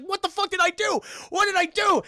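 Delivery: high, loud mock wail; hammed-up aggrieved yelp; bewildered protest. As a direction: act out a husband being whacked. Husband protests while hit.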